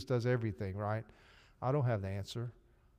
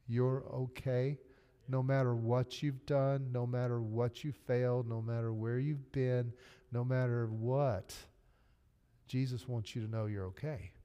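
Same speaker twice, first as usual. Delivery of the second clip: gentle reassurance. Real, not acted. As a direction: lay each line down gently like a blessing. Tender reassurance to listeners.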